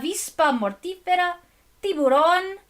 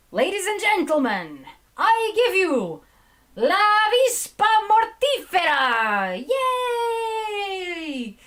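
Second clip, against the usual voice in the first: luchador announcer; 4 semitones higher than usual. Pretend. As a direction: hype the fighters into the ring. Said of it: "Sounds like luchador names".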